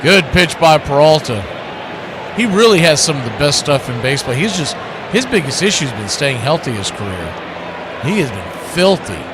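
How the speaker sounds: play-by-play. Acted. Calling the game play-by-play.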